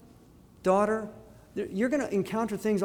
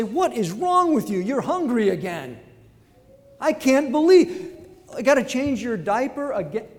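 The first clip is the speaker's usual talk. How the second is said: exasperated parent; 4 semitones higher, 3 dB louder than usual. Retold or imitated. Exasperated parent scolding a baby.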